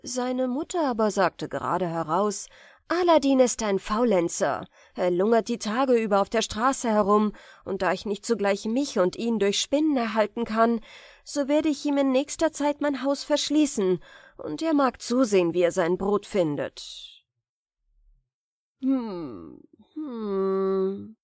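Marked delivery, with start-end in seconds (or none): 2.9-17.2 louder, exasperated mother; scolding mother. Acted. The mother complains to the stranger, exasperated. 18.8-21.2 thoughtful hum. Acted. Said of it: "machte der Fremde".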